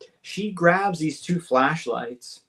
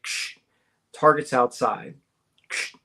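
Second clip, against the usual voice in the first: imitated radio crackle; 3 semitones lower than usual. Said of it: "you hear a radio click on".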